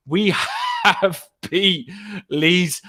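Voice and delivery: slow, laughing burst of joy; real laugh of victory mid-sentence; laughing triumph. Real, not acted. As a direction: shout it out through a laugh. Celebrating a win over Leeds.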